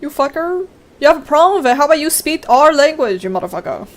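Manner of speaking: a touch of mock fury; mock angry rant. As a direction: play up fake outrage at the trolls.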